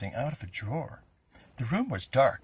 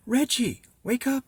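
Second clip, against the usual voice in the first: higher, louder call of a name; calling to wake him; 11 semitones higher, 7 dB louder than usual. A narrator's reading. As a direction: shake him awake with your voice. Waking sleeping friend.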